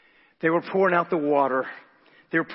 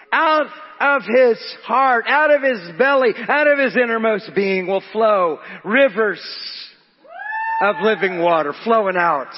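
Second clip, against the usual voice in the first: raised, emphatic pulpit voice; forceful preaching; 5 semitones higher, 5 dB louder than usual. Real, not acted. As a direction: preach it out to the congregation.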